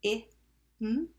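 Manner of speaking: "H, I, m" as three separate letter sounds; sounded out. Shown as a demonstration. Teacher tapping him with pupils, sounded out. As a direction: tap out each sound of "him" with gaps. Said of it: "Tap him".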